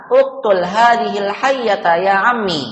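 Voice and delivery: slow, firm classroom order; drilled imperative, held up to the last word; commanding. Shown as a demonstration. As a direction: give a measured command. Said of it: "menyuruh atau memerintah".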